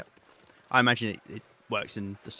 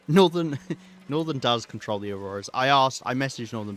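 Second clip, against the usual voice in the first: put-on Cos's accent; 2 semitones higher, 8 dB louder than usual. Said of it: "Should I do Cos's accent?".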